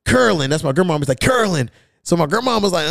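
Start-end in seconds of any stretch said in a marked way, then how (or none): 0.0-0.5 higher-pitched name call. Retold or imitated. Drunk uncle calls grandma, retold. 1.2-1.7 name called a little higher; calling out. Retold or imitated. Drunk uncle calls grandma, retold.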